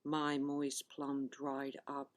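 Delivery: measured recital, pausing between phrases; poetry reading. Acted. Poet reading her plum pudding love poem to listeners, measured recital. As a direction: read it as verse, each image set apart by a pause.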